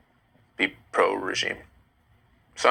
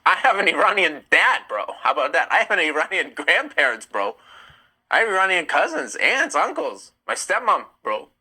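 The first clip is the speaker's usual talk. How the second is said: Iranian accent; 5 semitones higher than usual. Shown as a demonstration. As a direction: ham up the Iranian accent, teasing.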